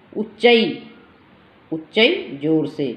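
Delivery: उच्चई said clearly, syllable by syllable; teacher pronunciation. Shown as a demonstration. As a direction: model उच्चई for the class. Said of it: "कई बच्चे ऊंचा लिख देते हैं".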